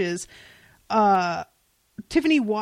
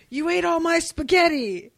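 imitating Leonard's higher, louder yell; mock yell; 7 semitones higher, 5 dB louder than usual. Fan quoting Leonard yelling at Jeff, mock yell. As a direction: toss out a quick mock yell. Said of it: "he yells at Jeff".

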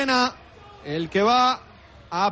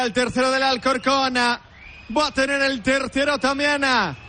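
normal talking voice

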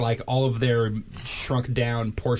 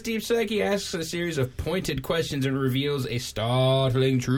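magician voice; 4 semitones higher than usual. Acted. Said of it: "that was a good magician guy voice".

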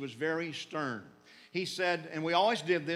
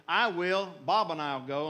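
eager volunteering; 7 dB louder than usual. Retold or imitated.

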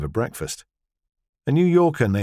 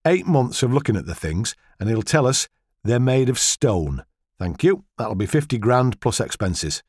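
mocking. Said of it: "with a mocking grin".

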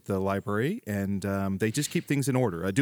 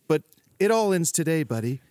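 villain threat; 5 semitones higher than usual. Acted.

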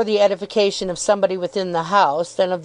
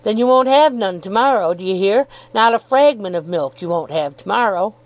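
fierce milkman=57. Acted. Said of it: "shaking his head at her darkly".

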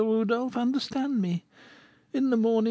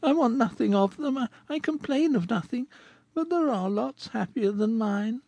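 bitter. Acted. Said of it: "with bitterness".

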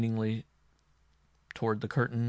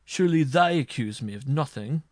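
raised, loud, worried protest; anxious cry; 4 semitones higher, 7 dB louder than usual. A narrator's reading. Marshal fears his servants' testimony, anxious cry. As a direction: protest anxiously, pitched up and louder. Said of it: "cried the marshal, trembling".

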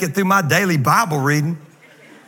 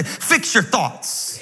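slow, stressing your in "Fix your thoughts"; slow emphatic phrase; 3 semitones higher, 3 dB quieter, much slower than usual. Shown as a demonstration. Pastor models the line for the congregation, slow and stressed. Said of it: "Turn to somebody next to you and say".

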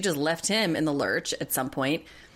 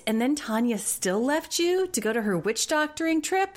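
incredulous outrage; 10 semitones higher than usual. Pretend. A podcast host reacting to Tanya leaving him, high incredulous squeal. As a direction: squeal it in disbelief.

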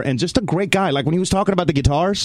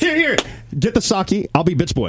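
imitating a rapper. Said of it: "Are you being Diddy?".

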